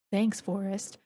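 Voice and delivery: a light smooth sultry purr, barely shifted; the femme fatale voice she would not use; mock sultry thanks. Shown as a demonstration. Explaining her voice acting, she shows a lightly sultry thanks. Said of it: "So I wouldn't be like".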